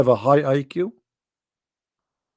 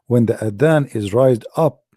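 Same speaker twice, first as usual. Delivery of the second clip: whisper; 3 semitones lower than usual. Pretend. Whispered line inside mock song.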